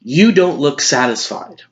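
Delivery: lightly acted, exasperated news anchor rant; Will McAvoy. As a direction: reel off the argument with mounting indignation. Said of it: "as news anchor Will McAvoy".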